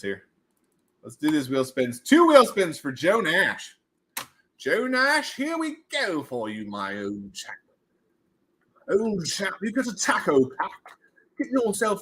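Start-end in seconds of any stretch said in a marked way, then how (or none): 4.6-7.5 put-on posh British accent. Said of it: "stop talking like that". 8.9-12.0 put-on posh British accent. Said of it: "stop talking like that".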